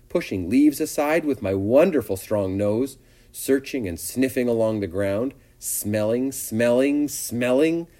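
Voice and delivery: lightly voiced eager little pig; dreamy pig Wilbur. Voices pig's forest daydream.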